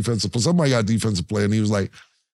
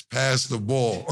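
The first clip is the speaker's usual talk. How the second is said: pleading; 2 semitones lower, 3 dB quieter, much slower than usual. Retold or imitated. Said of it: "I'm like this".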